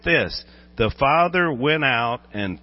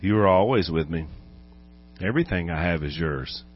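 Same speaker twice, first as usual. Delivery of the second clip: patient father; 5 semitones lower than usual. Acted. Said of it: "so patient".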